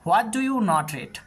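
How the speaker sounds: very slow, each word set apart; slow model reading. Shown as a demonstration. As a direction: spell the sentence out slowly for pupils. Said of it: "তাহলে হয়ে যাচ্ছে". (ধীরে, প্রতিটি শব্দ আলাদা করে)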